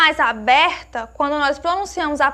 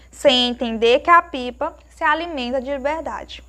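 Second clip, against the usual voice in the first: leitura de poema. Acted. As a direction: read the verse line by line with pauses. Lê um trecho de poema. (leitura pausada de poema)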